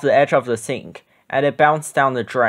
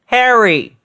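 higher, louder call; alarmed Grover; 7 semitones higher, 4 dB louder than usual. A narrator's reading. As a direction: call out to his friend in alarm. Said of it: "he said".

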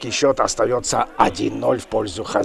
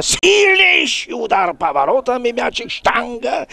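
high, raised voice on the shot; excited commentary; 11 semitones higher than usual. Real, not acted. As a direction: lift the voice as the ball strikes. Replay of the goal. (взволнованный комментарий)

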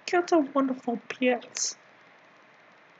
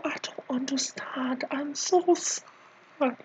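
hushed, drawn-out pretend sobbing; mock crying; 4 dB quieter, slower than usual. Comedian lamenting that people can't use chopsticks, mock crying. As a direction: play up being too choked up to speak. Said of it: "I'm crying so bad".

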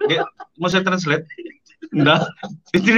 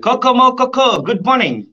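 much higher, slow and squeaky; squeaky fan voice; 9 semitones higher, 4 dB louder, slower than usual. Retold or imitated. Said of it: "dia bilang". (suara fans yang melengking tinggi)

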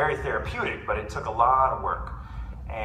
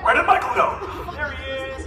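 mock bafflement; 12 semitones higher, 5 dB louder than usual. Acts out fans losing, spotting him.

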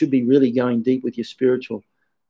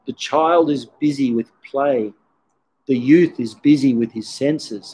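slow, measured recital of a poem. Shown as a demonstration. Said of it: "this beautiful poem which goes".

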